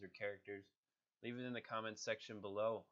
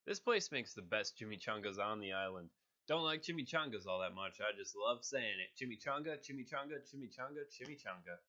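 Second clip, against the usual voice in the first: Deadpool voice; 4 dB louder than usual. Acted. Deadpool gleefully repeating chimichanga, louder then fading. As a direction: savor the word, then trail off. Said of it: "Next, I'm gonna do Deadpool".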